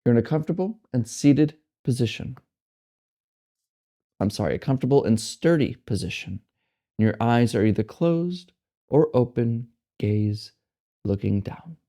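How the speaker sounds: unhurried meditation guide, with long pauses; guided meditation. Acted. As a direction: settle them gently into the posture, phrase by phrase. Settles listeners into meditation.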